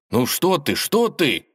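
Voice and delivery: lightly voiced flustered friend; flustered Ivan. A narrator's reading. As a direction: caught off guard, soothing. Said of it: "растерялся Иван".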